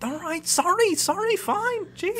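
very high, whiny sorry; grudging apology. Acted. Sister apologising after a slap, grudging. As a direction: give in like a scolded sibling.

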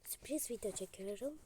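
stuffy, sickly voice with coughs. Real, not acted. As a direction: talk through a cold. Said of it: "bu arada sesim çok kötü".

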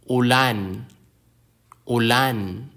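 "Ulan" with the weight on LAN; teacher's demo of u-LAN; final-syllable stress. Shown as a demonstration. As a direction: lengthen and lean on the last syllable of "Ulan". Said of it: "Some words have stress on the last syllable".

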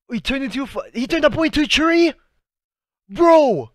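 high-pitched disbelief, ending in a shout; incredulous outcry. Real, not acted. Fan seeing a character turned into a tree, incredulous outcry. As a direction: squawk it in total disbelief.

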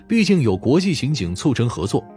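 usual speaking voice

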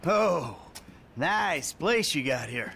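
slow, sarcastic compliment. Acted. Mocking a friend's place, sarcastic. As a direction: drag out the fake admiration. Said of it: "I was just being sarcastic".

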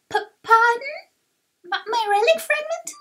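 startled, stuttering confusion; flustered. Acted. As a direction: stumble over the first words, caught off guard. Character caught off guard, stammers.

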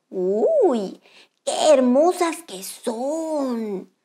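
slow dreamy wonder; slow admiring crab. Acted. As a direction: marvel at the starfish.

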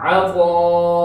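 अतअन drawn out very slowly, throaty ain; slow ain demo. Shown as a demonstration. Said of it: "ऐसे". (आइन के साथ धीरे धीरे अतअन)

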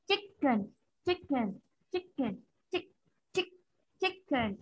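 "chicken" with a clear ch, a held k and a falling end; slow model of "chicken", the k held; careful model pronunciation. Shown as a demonstration. Teacher modelling the word for the class, careful pronunciation. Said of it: "Đêm nay phải lưu ý là".

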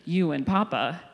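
put-on a mild take on two kids demanding the middle spot; kids insisting. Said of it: "They're like".

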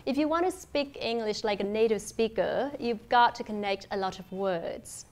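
final consonants carried into next vowels, as in "lot of"; connected native-style linking in "speak English"; linked sounds. Shown as a demonstration. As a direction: join "like a" and "connect a" smoothly. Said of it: "Tôi lấy một ví dụ như thế này".

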